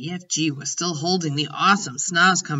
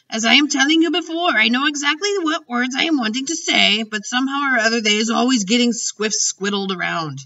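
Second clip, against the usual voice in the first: agitated giant, stumbling then rushing higher; flustered giant; 4 semitones higher, 4 dB louder than usual. Acted. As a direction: fumble for words as a frustrated giant. Voices the flustered giant in a story.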